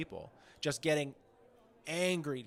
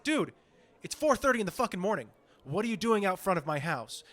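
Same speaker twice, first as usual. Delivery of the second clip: higher, fed-up mock complaint; annoyed impression of a rapper; 4 semitones higher than usual. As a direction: imitate a star woken too early. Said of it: "He's like".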